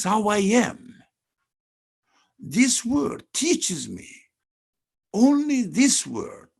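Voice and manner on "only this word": "only" punched high and loud; stress on "only". Real, not acted. Teacher underlining one word for listeners, emphatic stress on "only". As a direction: lean hard on the word "only", high and strong. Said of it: "I'm emphasizing the, the word only".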